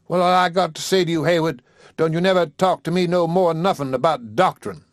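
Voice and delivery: a defeated rival's last jab; bitter parting shot. Acted. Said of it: "Crushed with anger and defeat".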